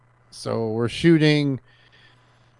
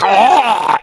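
loud, high open-mouthed "Ah!"; mock scream; 8 semitones higher, 4 dB louder than usual. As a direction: re-enact a startled yell. Reacting to string liquid in mouth.

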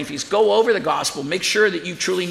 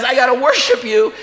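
loud, high exclamation of awe; awed outburst; 6 semitones higher, 5 dB louder than usual. Acted. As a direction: act out someone overwhelmed before an angel, voice raised. Acts John awed by angel.

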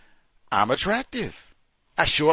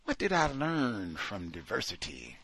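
Ashley; 4 dB quieter than usual. Acted. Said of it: "Then Ashley said".

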